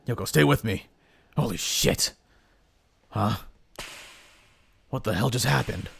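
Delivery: startled young hero, lightly voiced. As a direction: play the hero puzzled and uneasy.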